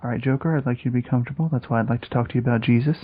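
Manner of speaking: impression of friend. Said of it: "he's doing the voice again".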